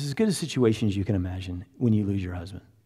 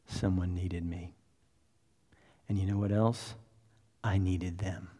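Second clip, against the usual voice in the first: tearful; 3 semitones lower, 8 dB quieter than usual. Retold or imitated. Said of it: "tears coming down her eyes".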